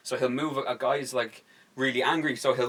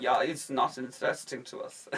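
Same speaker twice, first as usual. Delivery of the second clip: mock German accent; 4 dB quieter than usual. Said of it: "Either the German's like".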